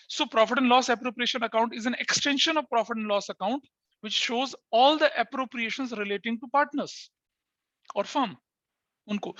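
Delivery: very slow, word by word; slow dictation. Shown as a demonstration. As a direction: dictate so they can write it down. Teacher dictates the definition.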